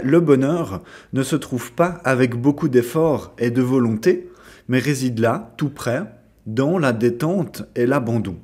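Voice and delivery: deliberate, measured reading of verse; poem reading. Acted. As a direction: read it out phrase by phrase. Reads a poem aloud. (lecture de poème posée)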